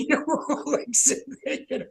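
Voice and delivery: emotional, tearful. Real, not acted. Recalling the surgeon's story, tearful and soft. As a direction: let the tears creep into it. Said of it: "I'm misty".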